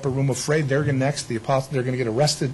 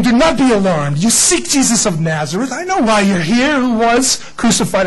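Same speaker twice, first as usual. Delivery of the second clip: angel's proclamation; 7 semitones higher, 5 dB louder than usual. Acted. Preacher voicing angel at tomb.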